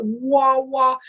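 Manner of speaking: drawn-out didgeridoo-like wah; imitated didgeridoo. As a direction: imitate a didgeridoo drone with your voice. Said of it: "kind of like a didgeridoo sound".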